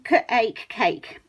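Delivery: c then ache then cake; sounding out. Shown as a demonstration. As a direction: split cake into onset and rime. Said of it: "pictures of speech sounds".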